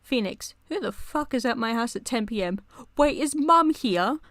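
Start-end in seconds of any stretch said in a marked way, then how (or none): 3.0-4.2 alarmed. Acted. Reading fanfic chat, character alarmed.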